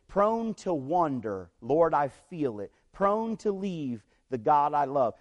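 slow, deliberate verse reading; reading verse aloud. Retold or imitated. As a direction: read the lines out slowly, phrase by phrase. Woman reads the verse aloud.

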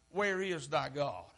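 low, soft, slow question; subdued, drawn-out taunt; hushed taunt. Acted. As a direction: say it quietly, as an unspoken accusation. The taunt repeated low, as looks imply.

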